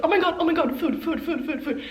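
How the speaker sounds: high, loud, eager dog voice chanting food; excited puppy. Retold or imitated. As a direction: play a puppy thrilled about its dinner. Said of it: "dogs get excited about literally dry pellets".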